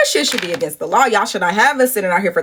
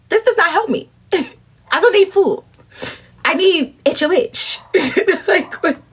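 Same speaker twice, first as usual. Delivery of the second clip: high-pitched laughing disbelief; half-crying, half-laughing high rant; laughing outrage; 12 semitones higher than usual. Retold or imitated. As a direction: cackle through the complaint.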